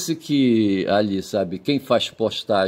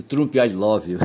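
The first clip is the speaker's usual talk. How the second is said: laughing through a mock "Trump, I love you"; laughing mock quote; slower than usual. Mocking Bolsonaro greeting Trump, laughing. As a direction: quote it while breaking into laughter.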